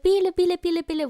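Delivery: quick repeated mock animal call; imitated duck call. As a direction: call the ducks over, mimicking. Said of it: "trying to call the ducks over".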